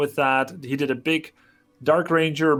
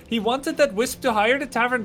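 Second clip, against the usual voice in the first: mild mock Indian accent, a bit higher; 5 semitones higher than usual. Caster explains the lost Wisp, light put-on Indian accent. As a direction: narrate the Wisp plan in a joking Indian accent. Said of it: "talking with an Indian accent".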